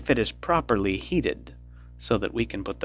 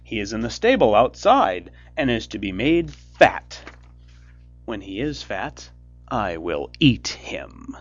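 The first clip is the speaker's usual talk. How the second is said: loud harsh witch orders; cried out; 8 dB louder than usual. A narrator's reading. Witch shaking Gretel awake, loud commanding cry. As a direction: bark orders at the lazy girl. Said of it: "and cried".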